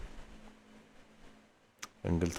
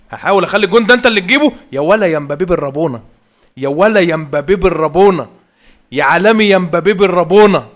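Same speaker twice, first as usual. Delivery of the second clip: much higher, loud chant of Mbappe's name; goal celebration; 7 semitones higher, 11 dB louder than usual. Real, not acted. Gamer celebrating Mbappe's volley goal, ecstatic shout. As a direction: scream the goal like a fan.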